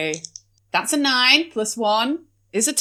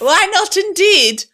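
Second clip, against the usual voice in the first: posh lady voice; 9 semitones higher than usual. Acted. Player voicing posh character.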